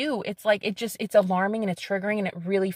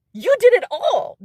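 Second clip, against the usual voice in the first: excited peak; 12 semitones higher, 7 dB louder than usual. Real, not acted. Rising excitement at the end.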